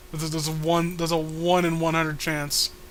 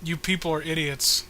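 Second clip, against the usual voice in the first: put-on squeaky girl voice; 4 semitones lower than usual. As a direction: keep up the chirpy girl act. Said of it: "what happened to your voice?".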